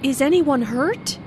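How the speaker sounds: worried question, rising at the end. Acted. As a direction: ask with concern after a crash. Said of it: "asked in a worried way".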